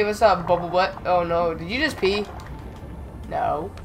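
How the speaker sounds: ordinary delivery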